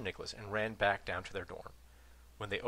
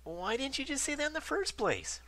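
lightly voiced indignant Ron; 4 dB louder than usual. Ron's indignant question.

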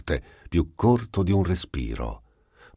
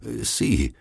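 scherzoso; 7 semitones higher than usual. Acted. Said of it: "disse scherzosamente".

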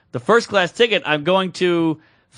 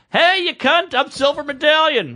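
high-pitched, indignant demand; retold pissed-off caller; 7 semitones higher than usual. Traveler phoning the airline about status, pissed off. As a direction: pull rank in mock anger. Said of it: "now I'm pissed, so I call Delta".

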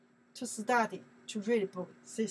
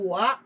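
我 punched out loud, a short falling hit; stress on 我; 2 semitones lower, 7 dB louder than usual. Shown as a demonstration. Teacher answering "who?" with a loud 我. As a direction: hit 我 hard, it's who. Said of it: "Who? It's me".

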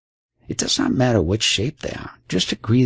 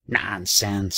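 brusque. Acted. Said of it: "said Chan brusquely".

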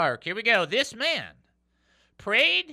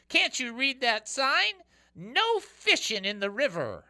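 scolding ranger; 7 semitones higher than usual. Acted. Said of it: "yelled the ranger".

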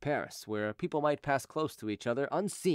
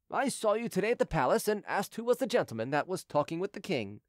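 lightly voiced obliging soldier, a little higher; friendly soldier, explaining; 5 semitones higher than usual. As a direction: explain it amiably, as a common soldier. Soldier figure in story narration.

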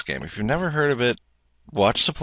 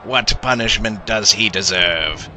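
proclamation to a crowd; 3 semitones higher than usual. Acted. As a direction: announce it to the whole crowd. Executioner addressing crowd.

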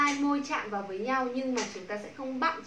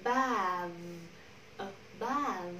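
"Above" with a weak schwa and long second syllable; unstressed first syllable; 4 semitones lower, 3 dB quieter, much slower than usual. Shown as a demonstration. Teacher drilling word stress for students, weak first syllable in "Above". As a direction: lean on the drawn-out "bove" of "Above". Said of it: "Không nhận trọng âm".

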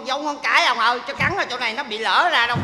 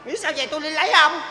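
scoffing; 3 semitones higher, much faster than usual. Acted. Bride scoffs at old suitor.

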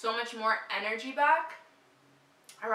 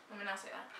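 eating while talking; mouth full; 3 semitones lower, 15 dB quieter, faster than usual. Real, not acted. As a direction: talk around candy in mouth. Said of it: "I'm eating them right now".

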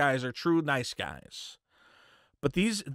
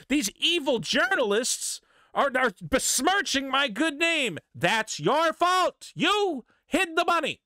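mock outrage; 5 semitones higher, slower than usual. Mocking his outrage, then scolding.

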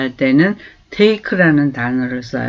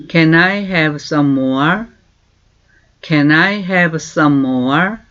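very slow, clear English for learners to copy; slow model phrase; much slower than usual. Shown as a demonstration. Teacher slowly modelling a question. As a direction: stretch each word for repeating. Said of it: "이렇게 말하고 있어요".

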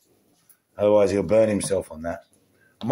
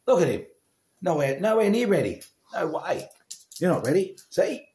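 put-on teasing baby talk; 7 semitones higher than usual. High voice teasing the dog.

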